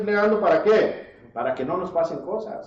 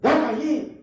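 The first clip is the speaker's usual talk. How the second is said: mock yell, higher at the end; parent raising voice; 3 semitones higher than usual. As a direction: imitate a parent snapping at a kid. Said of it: "Pensamos que al levantar la voz".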